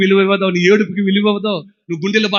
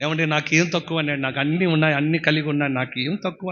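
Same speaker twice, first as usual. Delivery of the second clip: imitating a proud listener; 3 semitones lower, 6 dB quieter than usual. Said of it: "అని నువ్వు అంటున్నావు".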